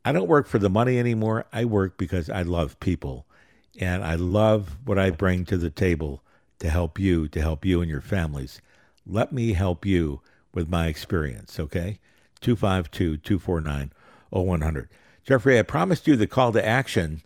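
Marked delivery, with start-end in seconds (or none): 3.8-14.9 winded, squeezing it out on one breath; running low on air toward the end. Real, not acted. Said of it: "I'm out of breath on that one".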